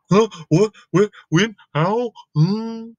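high, questioning little pig; a confused squeaky pig; puzzled Piggy. Acted. Piggy asking Gerald questions, high and puzzled.

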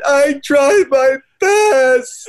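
high wailing sob-shout, stretched out slowly; hammed-up blubbering of an old line; mock crying. Friend imitating him crying on tour, wailing. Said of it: "when we'd be crying".

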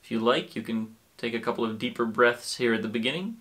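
calm, unhurried guiding with long pauses; guided meditation. Acted. Teacher settling listeners into sitting and breathing, calm guided meditation. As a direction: ease the listener into stillness, leaving room to breathe.

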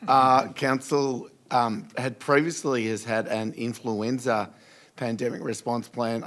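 hoarse, croaky speech. Real, not acted. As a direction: talk through a croaky throat. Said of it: "given my croaky voice".

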